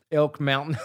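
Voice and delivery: words breaking into laughter; laughing. Real, not acted. Laughing while describing the huge hug he gave the fan.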